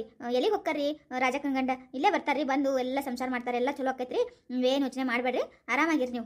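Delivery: low-pitched, calming comfort; reassuring. Acted. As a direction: soothe her out of crying, pitch dropped. Daughter-in-law consoles tearful mother-in-law.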